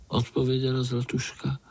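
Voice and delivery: usual speaking voice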